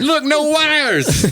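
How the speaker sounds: slow, high and loud through laughter; laughing boast. Retold or imitated. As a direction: crow about it while cracking up. Shows off the phone, laughing.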